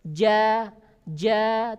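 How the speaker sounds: ja said thin and light, not thick; light ja demo; thin jim. Shown as a demonstration. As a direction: keep ja thin. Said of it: "huruf jim adalah tipis".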